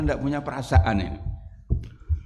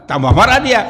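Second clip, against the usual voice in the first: loud exclaim; 9 semitones higher, 10 dB louder than usual. Real, not acted. Preacher narrates anger loudly.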